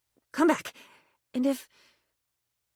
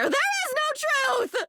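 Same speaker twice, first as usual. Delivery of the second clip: much higher and slow, like a grand pronouncement; dramatic proclamation; slower than usual. Acted. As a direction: declare it as a wild revelation. Spiralling crisis about lying.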